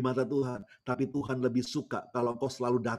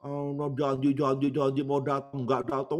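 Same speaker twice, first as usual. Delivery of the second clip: imitated grumbling old woman, pitched up; mock-cross, raised granny voice; angry granny; 4 semitones higher, slower than usual. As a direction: complain crossly like a granny let down by her child. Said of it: "agak-agak marah begitu, seperti orang marah".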